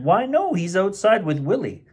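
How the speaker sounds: a hint of a cheerful mum answering; mother voice. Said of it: "His mother answered".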